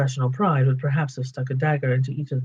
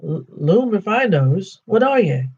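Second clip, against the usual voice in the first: troll voice; 5 semitones higher, slower than usual. Acted. Troll William questions Bilbo.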